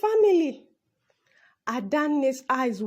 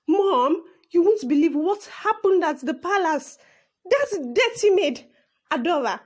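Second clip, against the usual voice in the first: indignant complaint; 2 semitones higher than usual. Acted. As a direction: complain hotly to mom. Spoilt daughter complaining to mother.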